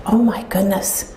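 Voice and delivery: slow, breathy whisper of amazement; whispered thought. Retold or imitated. Caller hearing a stranger's name, whispering to herself in awe. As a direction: breathe it out to yourself, stunned.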